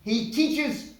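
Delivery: a showy boss introducing staff, slowed for effect; imitating camp director. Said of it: "this man ... introduced me".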